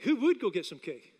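WOULD punched against the negative; stress on WOULD. Real, not acted. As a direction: lean hard on "would" in the question. Polls audience, negative then positive.

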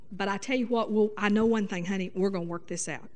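calm her down gently; reassuring husband. Shown as a demonstration. Husband reassuring upset wife, soft and tender. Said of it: "You can say".

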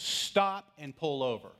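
loud, slow, firm order; abrupt loud command. Retold or imitated. An inner voice ordering the young driver, abrupt loud command. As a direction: bark the order out, slow and stern. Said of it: "it was abrupt, and it was loud".

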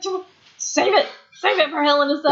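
high mock scolding; imitating Paige. Paige telling the wrestlers to save it, high mock scold. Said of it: "She's like".

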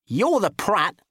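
high, smug fussy man; self-righteous squeak. Acted. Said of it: "he said righteously".

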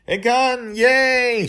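put-on very high, loud child squeal of joy; a toddler shrieking with delight at her first gun; excited little girl.

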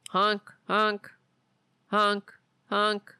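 goofy clown horn honks; silly clown. Pretend.

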